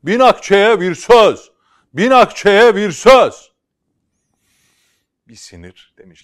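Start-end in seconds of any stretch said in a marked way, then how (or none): 0.0-3.5 high, loud, slow market shout. Acted. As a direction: bellow it across the square. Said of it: "bir adam bağırıyor".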